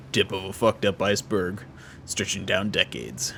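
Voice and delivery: low voice, slowing at the end; lightly voiced deep character, drawn out; deep-voiced game character. Contact describing a long cover-up, low and measured.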